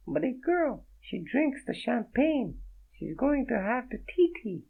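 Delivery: a startled French woman, voiced high; French accent. Naked woman startled by Fredo, in a high French accent. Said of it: "slurring her words".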